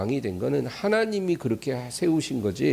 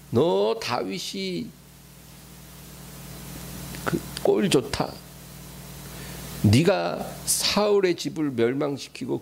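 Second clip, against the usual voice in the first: mocking curse. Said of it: "저주를 퍼붓는 거예요".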